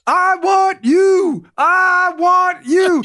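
high, loud, drawn-out taunting boast; Apollo Creed. Retold or imitated. Boxer taunts his opponent in the ring, hammed-up bellowing challenge. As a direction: stretch each word way up like a showboating boxer. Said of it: "when Apollo Creed jumps in the ring".

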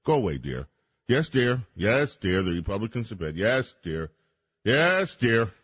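lightly voiced, placating yes dear; bored dismissive husband. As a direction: mumble it like you're tuning her out. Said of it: "everybody's like".

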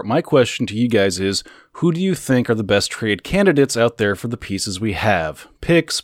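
put-on fan letter in a South African accent. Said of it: "Afrikaans accent?".

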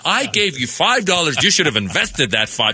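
lightly voiced stern elder scolding; a hint of a preachy father figure; mock lecture. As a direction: wag the finger at the young man. Lecturing beggar like a parent.

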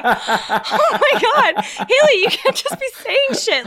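high, slow, laughing panic; a retold panicked thought, high and laughing; panicked inner voice. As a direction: squeal it out in mock horror. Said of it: "I was literally just like".

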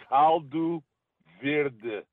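"caldo verde" said the Portuguese way; "caldo" loud and high, in Portuguese; Portuguese pronunciation. Shown as a demonstration. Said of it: "I'm gonna say this in Portuguese".

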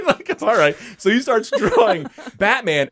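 laughing high through the words; real laughter breaking into the words. Real, not acted. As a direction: giggle through the story, slowing down. Laughing recalling the draw-off.

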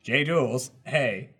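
text-to-speech voice. Acted. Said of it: "Text to speak".

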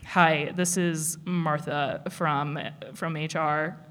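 a stern HR caller asking someone down to the office. Shown as a demonstration. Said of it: "it's not quite an angry man voice".

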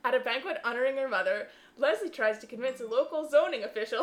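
put-on a light Fargo accent, laughing. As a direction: try an Irish accent, land in Fargo. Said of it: "the Fargo accent".

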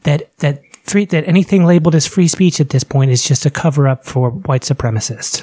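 softly mock the polite radio host; lisp. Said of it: "with a little bit of a lisp, we're just gonna softly say".

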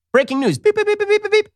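high mock beeping alert sound; mock news alert. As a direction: beep like a breaking-news chime.

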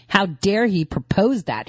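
slow, drawn-out mock outrage; mock indignation, slowed right down; slow sarcasm. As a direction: lean on propose, sarcastic.

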